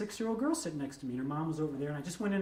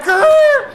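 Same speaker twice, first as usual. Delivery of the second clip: record scratch noise; 19 dB louder than usual. Retold or imitated.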